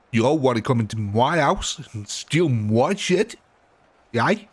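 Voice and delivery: badly faked South African accent; lightly attempted South African accent, rising questions. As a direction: have a rough go at South African. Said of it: "I cannot do South African accents at all".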